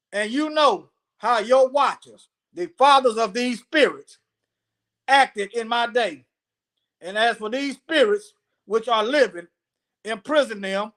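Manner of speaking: measured recital with drawn-out key words; scripture reading. Acted. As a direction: read it out phrase by phrase. Reads scripture aloud.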